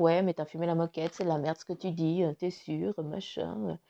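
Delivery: fast, low mock inner critic; nagging inner voice. Mocking her own doubting mind, a quick low mock sneer. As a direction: rattle it off like the doubting voice in your head. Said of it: "ce mental qui vient nous dire".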